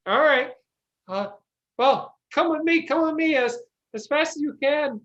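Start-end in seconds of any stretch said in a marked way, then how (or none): 1.8-5.0 urgent peasant. Acted. Peasant urges party.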